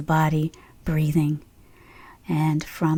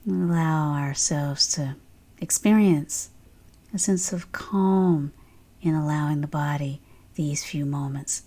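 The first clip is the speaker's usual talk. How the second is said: guided meditation; 3 dB quieter than usual. Real, not acted. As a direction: ease listeners gently into stillness, unhurried.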